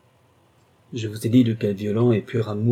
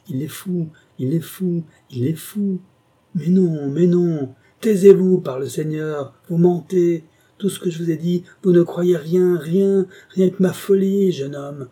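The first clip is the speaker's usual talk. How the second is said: much higher, much louder raging shout; furious yelling; 7 semitones higher, 6 dB louder than usual. A narrator's reading. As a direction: shout him down, beside himself. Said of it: "L'homme rugit".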